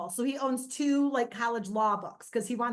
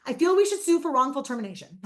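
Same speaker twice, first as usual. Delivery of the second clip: deadpan son; 6 dB louder, faster than usual. Retold or imitated.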